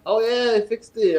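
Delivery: a hint of a defensive kid; retold insistent coworker. Coworker claims fix again.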